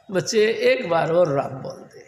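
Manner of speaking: a mother urging the leper loudly; loud coaxing mother. Acted. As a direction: call out firmly to say Ram. Mata Loi coaxes a fifth time.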